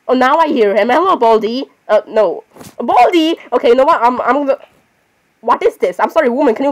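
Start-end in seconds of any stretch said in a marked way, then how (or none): 2.8-3.4 sharp rise then fall on the name; calling out. Real, not acted. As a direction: call out to Baldi, higher pitched. Calling out to game character.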